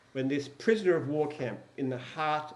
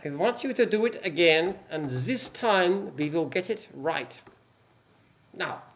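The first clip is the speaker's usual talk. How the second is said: put-on German accent. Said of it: "heard you do an accent".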